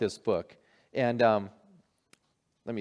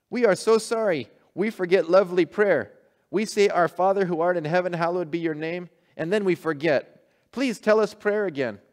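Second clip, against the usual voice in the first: high, loud, urgent broken-English call; fishermen crying out; 5 semitones higher, 4 dB louder than usual. Acted. Fishermen running on water calling to the bishop. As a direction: shout across the water, pleading. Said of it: "the fishermen cried out".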